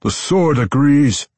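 high, loud, slow strain; through chattering teeth. A narrator's reading. Weapons master struggling with the sword, teeth chattering. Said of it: "Anzarel said through chattering teeth".

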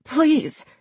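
high, strained little plea; hoarse begging. A narrator's reading. Charlie held by the neck, begging hoarsely. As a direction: beg weakly through a choked throat. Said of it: "she begged hoarsely".

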